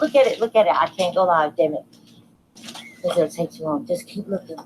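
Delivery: ordinary talk, nothing marked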